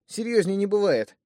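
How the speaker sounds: high, loud and certain; emphatic insistence. Acted. Thug insists to his brother, loud and high. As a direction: hammer it home, no doubt.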